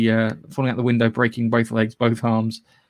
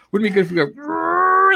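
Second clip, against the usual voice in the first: put-on excited kid voice; 4 dB louder than usual. Imitating producers playing with toys.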